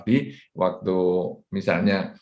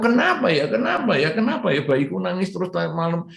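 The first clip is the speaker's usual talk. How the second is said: whiny mother; 6 semitones higher than usual. Retold or imitated. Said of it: "Tapi kalau".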